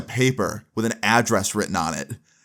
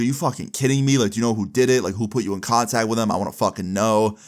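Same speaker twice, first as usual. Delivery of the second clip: lightly acted angry questioning; retold freak-out; faster than usual. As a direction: imitate a brother getting worked up, without yelling. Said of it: "he starts freaking out".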